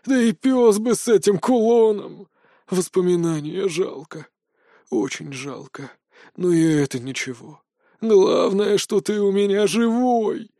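brushing off the loss lovingly; warm old man. Acted. Old man comforting grown boy.

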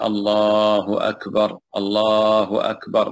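slow, drawn takbirs with a pause between; unhurried adhan. Shown as a demonstration. Teacher demonstrating the muezzin's measured adhan, slow and drawn. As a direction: let each phrase ring out, stretched. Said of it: "المؤذن يقف عند كل جملة".

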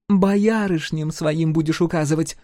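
резко огрызнуться; отрезать зло. A narrator's reading. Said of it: "огрызнулась она". (погорелица резко огрызается на Дакуку)

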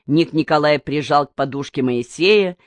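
plain reading voice

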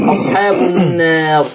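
"النار" con l'alif inclinata verso e, lenta; imala recitativa. Shown as a demonstration. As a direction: recite "النار" tilting the long a slightly toward e. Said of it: "يميل بالألف شوية".

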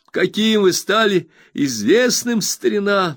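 high, bright-eyed friend overjoyed; eager Traddles. Acted. Traddles reassures his old friend Copperfield, eager high voice. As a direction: gush with happiness at the reunion.

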